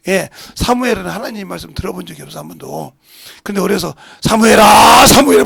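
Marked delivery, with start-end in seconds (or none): 4.2-5.1 louder call of the name 사무엘아, rising at the end. Retold or imitated. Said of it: "불러서". 5.1-5.4 사무엘아 shouted louder and higher the second time; louder call. Retold or imitated. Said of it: "불러서".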